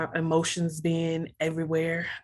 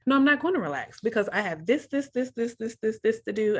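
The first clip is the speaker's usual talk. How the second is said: higher-pitched, mildly exasperated protest; retold exasperated refusal; 4 semitones higher than usual. Daughter refusing mom's advice to relax, mildly exasperated. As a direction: pile up the list in mock exasperation. Retold argument with her mother.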